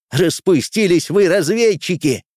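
high, indignant grumble; grumbling. A narrator's reading. Quartermaster scolds the unruly scouts, grumbling. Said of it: "проворчал интендант".

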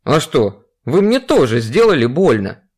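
lightly voiced grumpy old woman; a hint of a spiteful granny; foul-mouthed granny. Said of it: "Голосом вредной старухи парировал Петров".

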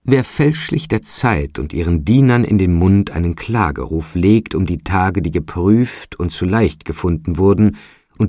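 emphatic, mounting reproach from a spirit; lightly voiced phantom, slowing gravely on the verdict; accusing bell phantom. Bell phantom accuses Trotty of wronging the bells, stern and emphatic.

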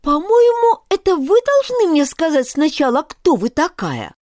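put-on a girl forcing a grand tone; trying to sound imposing. A narrator's reading. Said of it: "чтобы голос её звучал повнушительнее".

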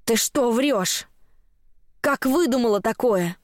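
slow, drawn-out outraged question; old woman's outrage, without shouting; roaring indignation. A narrator's reading. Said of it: "взревела она". (возмущённо, растягивая слова)

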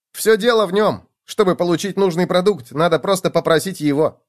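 high, explaining gopher voice; eager gopher. A narrator's reading. Gopher shows the magic pot, eager. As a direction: reveal it in a lifted pitch.

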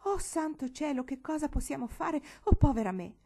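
panicked lament, climbing; moaning in dismay. Acted. Cousin Teresa wailing over Marigold's head, panicked moan.

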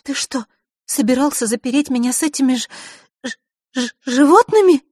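high, loud stammering in horror; horrified stammer. Acted. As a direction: stutter on the word in fright. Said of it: "Василиса ужаснулась".

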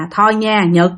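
mother gently coaxes her son to lie down; gentle. Acted. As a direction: soothe the child to sleep. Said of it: "nói nhẹ nhàng với nó".

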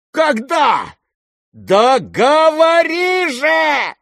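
very high, very slow demanding yell; impatient shout. Acted. Lizaveta shouting at the prince to answer. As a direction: force the answer out of him.

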